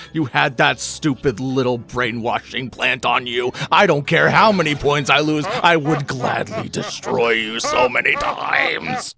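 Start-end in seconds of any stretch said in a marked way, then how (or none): 5.5-9.1 angry shout. Real, not acted. Raging at hated character.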